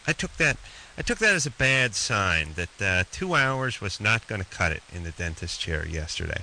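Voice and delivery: slushy lisp from a swollen jaw. Real, not acted. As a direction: talk with a lisp, cheek swollen. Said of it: "you have to excuse my, uh, my lisp".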